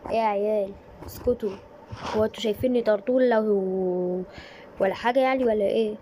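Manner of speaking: loud teacherly telling-off; scolding shout. Acted. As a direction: yell to silence the class. Girl shouts at quarrelling kids.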